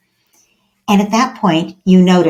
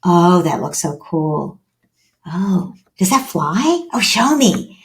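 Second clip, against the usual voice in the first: interested parent; slower than usual. Acted. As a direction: show gentle interest in a child's toy. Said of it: "I'm gonna connect with him".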